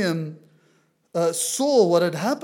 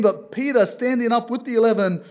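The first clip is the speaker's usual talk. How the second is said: raised voice; 5 dB louder than usual. Retold or imitated. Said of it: "raised his voice".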